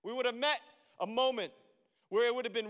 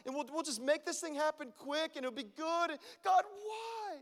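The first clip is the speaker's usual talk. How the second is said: higher, pleading complaint, almost whining; exasperated plea to God; 5 semitones higher than usual. Retold or imitated. Pastor retells his complaint to God, exasperated plea. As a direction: beg God to hurry it along. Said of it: "I'm like".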